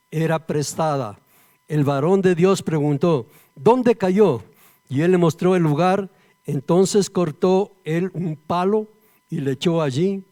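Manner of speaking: loud, declaimed Bible reading; scripture reading. Real, not acted. Preacher reads Eliseo's miracle to the church, declaiming. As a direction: proclaim each phrase firmly, settling on the last.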